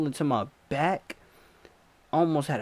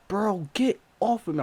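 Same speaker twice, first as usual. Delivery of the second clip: high, strained get off; high, pained plea to the attacker; panicked plea; 8 semitones higher than usual. Retold or imitated. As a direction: beg him off. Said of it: "I'm like".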